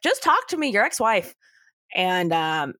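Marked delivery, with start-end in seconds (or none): 0.0-1.3 mock pleading Gail. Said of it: "Gail's like".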